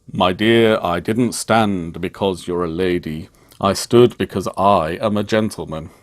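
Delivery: dry, unbothered, flat delivery; deadpan. Retold or imitated. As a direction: say it cool as you like. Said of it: "in a completely deadpan way".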